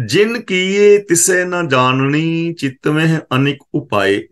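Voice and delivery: slow, measured intoning of the verse; scripture recitation. Acted. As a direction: draw out each word reverently. Recites next scripture line.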